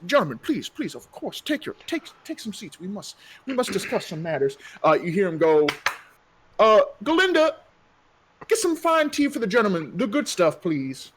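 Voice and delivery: lightly voiced courteous mayor; smooth mayor. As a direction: play the polite, slightly oily mayor.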